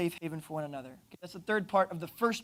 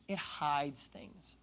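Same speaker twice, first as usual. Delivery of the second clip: slow, drawn-out joke; 5 semitones lower, 10 dB quieter, much slower than usual. Acted. Joke about his own concealer.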